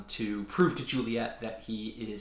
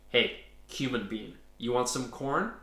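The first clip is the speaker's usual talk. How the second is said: sly mushroom voice. Acted. Fungus kid voiced, odd timbre.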